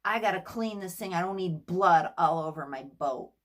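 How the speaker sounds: hint of a captain snapping about his boat; imitating a snappy captain. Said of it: "to his tone, everything was just like".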